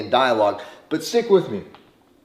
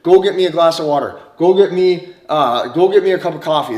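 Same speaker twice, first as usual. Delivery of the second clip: directing her; 4 dB louder than usual. Shown as a demonstration. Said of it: "You start directing her".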